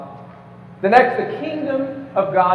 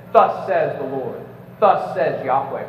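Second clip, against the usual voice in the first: prophetic proclamation; 6 semitones lower, slower than usual. Retold or imitated. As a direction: lower and slow, like an Old Testament prophet. Quoting Hebrew prophets' formula.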